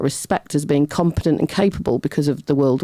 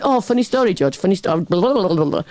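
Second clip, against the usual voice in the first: chirpy self-mockery. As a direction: parody your own nonstop storytelling. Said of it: "and I'm going".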